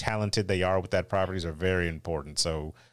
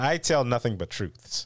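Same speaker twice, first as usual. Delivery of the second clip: mock earnest; 2 semitones higher than usual. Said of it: "trying not to laugh".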